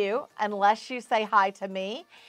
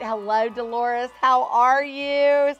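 gushing greeting; 3 semitones higher, 5 dB louder, slower than usual. Real, not acted. Host greeting Dolores, slow and gushing.

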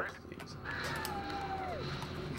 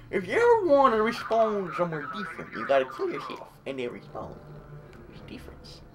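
put-on muddled Western Russian Scottish accent; weird mixed accent; 4 semitones higher, 4 dB quieter than usual. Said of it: "That's the weirdest accent I've ever done".

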